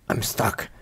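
panicked whisper. Real, not acted. Trapped wolf panicking.

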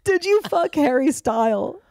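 "Style" said without the final s. Retold or imitated. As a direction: drop the s in "Style". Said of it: "With no S".

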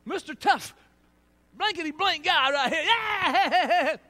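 loud, laughing self-mockery; mocking tough guy. Preacher mocking his younger tough self, loud and laughing. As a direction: laugh at your own swagger, loud.

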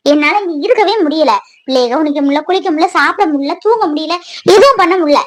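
soft, worn-out lament; despairing. Acted. Daughter telling mother she cannot cope, soft and despairing. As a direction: let it all sink quietly.

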